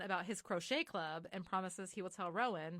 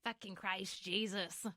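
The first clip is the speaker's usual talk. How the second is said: lightly attempted Irish growl; slow, half-hearted Irish accent; slower than usual. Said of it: "That was my Irish accent".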